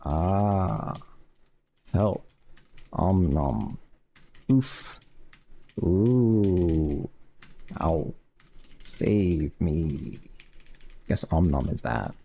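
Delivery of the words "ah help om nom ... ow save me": lightly voiced cartoon princess lines; a hint of a squeaky princess. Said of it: "Those are my princess voice events".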